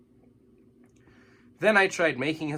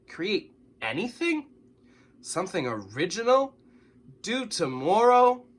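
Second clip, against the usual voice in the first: rising panic; 7 semitones higher, 4 dB louder than usual. A narrator's reading. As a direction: panic building over the assignment. Panicked inner thoughts.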